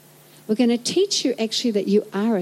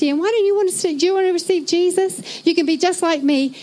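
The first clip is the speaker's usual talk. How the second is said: pushy mock evangelist; 5 semitones higher than usual.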